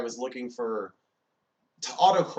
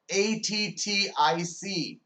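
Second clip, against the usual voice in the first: slow, high letter-by-letter spelling; each letter drawn out, pitched high; emphatic spelling out; 6 semitones higher, slower than usual. Acted. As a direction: spell it out with exasperated care. Texter spells out the intended word.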